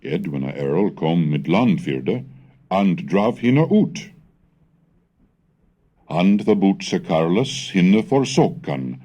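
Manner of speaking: put-on measured, careful recitation of old text; Old English reading. Shown as a demonstration. Lecturer reading the Anglo-Saxon Chronicle to students, measured recitation. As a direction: read the chronicle aloud like a scholar demonstrating.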